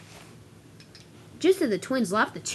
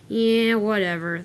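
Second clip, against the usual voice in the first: dismissive; 3 dB louder, slower than usual. Acted. Trucks brush off a welcome.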